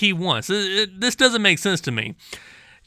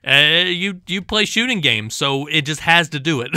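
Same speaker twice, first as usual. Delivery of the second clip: lower, mocking address to the kids; a fake public warning, dripping with sarcasm; sarcastic mock announcement; 5 semitones lower than usual.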